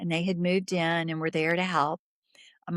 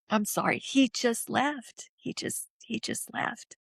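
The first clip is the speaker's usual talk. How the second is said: choked up; 5 semitones higher than usual. Real, not acted. Overcome telling of his death, apologizes.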